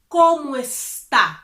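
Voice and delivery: "está" ending on the open A, no S; no final S. Shown as a demonstration. Teacher showing the formal question without the final S. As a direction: stop cleanly on the vowel of "está". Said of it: "without the S".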